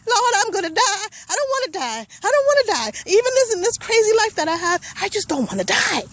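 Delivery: high, breaking, tearful plea; terrified crying. Real, not acted. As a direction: sob it out as if running for your life. Running for her life, terrified.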